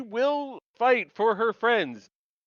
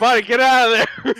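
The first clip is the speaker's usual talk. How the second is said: louder, higher shout at the screen; mock warning shout; 5 semitones higher, 7 dB louder than usual. Viewer yelling at Bonnie, loud mock warning. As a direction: yell it like a horror movie viewer.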